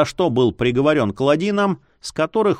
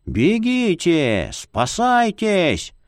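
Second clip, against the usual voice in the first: high, slow desperate calling; panicked cry; 5 semitones higher, much slower than usual. A narrator's reading. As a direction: cry out to everyone to flee. Villagers flee in panic.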